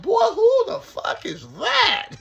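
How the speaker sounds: very high, loud, slow amazed cry; stunned cellmate. Retold or imitated. Cellmate seeing the host on TV, high and amazed. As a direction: stretch it out high like you can't believe your eyes. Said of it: "He said".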